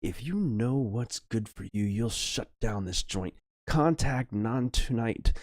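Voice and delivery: slow, deliberate acted threat; threatening. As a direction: lay down the orders slowly and firmly. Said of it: "he threatens".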